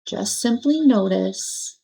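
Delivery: unhurried, pause-filled meditation guidance; guided meditation. Acted. Meditation teacher settling listeners into their seats and breath, gentle guidance. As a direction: guide them through it gently, leaving long pauses.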